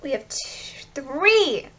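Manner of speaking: hushed whisper while counting cards. Real, not acted. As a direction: whisper it as if sharing a secret. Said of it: "I don't know why I said it like that".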